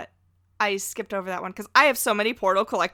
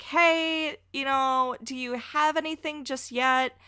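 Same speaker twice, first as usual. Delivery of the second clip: imitated co-host; 4 semitones higher than usual. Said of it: "you were like".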